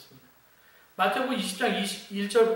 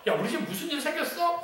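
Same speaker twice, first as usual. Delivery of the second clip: higher-pitched acted question, lightly voiced; puzzled older brother; 8 semitones higher than usual. Older brother asks a servant about the music, puzzled. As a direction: ask as a brother wondering what happened at home. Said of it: "종한테 물어보죠".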